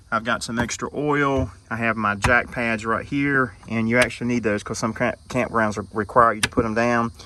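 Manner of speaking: breathing heavy while bending; out of breath, heavy breaths between words. Real, not acted. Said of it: "There I am breathing again heavy".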